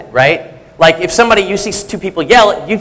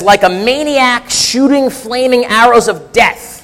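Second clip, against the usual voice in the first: slow, raised, drawn-out proverb reading; dramatic scripture reading; 5 semitones higher, slower than usual. Acted. Preacher reading Proverbs to the congregation, dramatic delivery. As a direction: draw out each image with mild drama.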